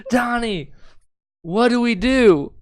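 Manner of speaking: high, drawn-out cry for help; hammed-up panicked calling; mock panic. Acting her panicked plea for help.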